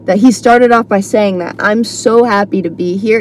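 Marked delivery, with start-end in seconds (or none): 1.6-3.2 imitating a sincerely glad comic, understated; mildly upbeat and sincere; genuinely happy. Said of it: "And he was genuine".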